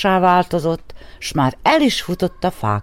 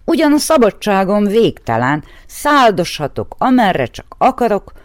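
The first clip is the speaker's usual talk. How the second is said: eager raven; 5 semitones higher than usual. Acted. The raven eagerly tells the horse its dream.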